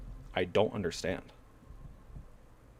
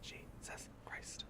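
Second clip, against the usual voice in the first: breathless whispered Jesus Christ; whispered exasperation; 21 dB quieter, slower than usual. Real, not acted. Frustrated gamer whispers to himself, slow and hushed. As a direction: breathe it out slowly under your breath.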